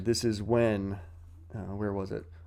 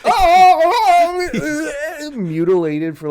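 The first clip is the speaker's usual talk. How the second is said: high loud laughing oh-oh-oh; laughing mock wail; 13 dB louder, slower than usual. Retelling the elves' torture, laughing high wail. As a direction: wail it while cracking up.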